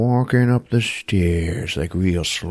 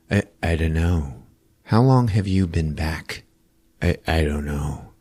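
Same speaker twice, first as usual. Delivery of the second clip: emotionless; 3 semitones lower, 4 dB quieter than usual. Retold or imitated. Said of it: "no emotions".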